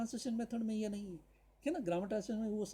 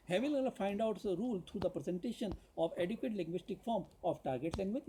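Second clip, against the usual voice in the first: slow, deliberate reading of a syllabus point; dictation reading; much slower than usual. Acted. Teacher reads a syllabus point to students, slow dictation. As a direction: read it out slowly as if for notes.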